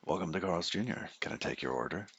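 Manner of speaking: soft, friendly drive-thru greeting. Retold or imitated. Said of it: "I have the drive-thru voice".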